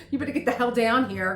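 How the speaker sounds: urgent plea to friend. Retold or imitated. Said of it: "I'd be calling my girlfriend saying".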